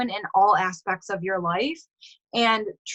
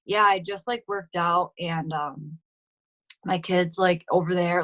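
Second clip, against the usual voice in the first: mock dull delivery, lower and trailing; bored rambling; 4 semitones lower than usual. Coach mocking a dull story post, bored and rambling. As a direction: imitate a listless, halting social media update. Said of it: "That's so fucking boring".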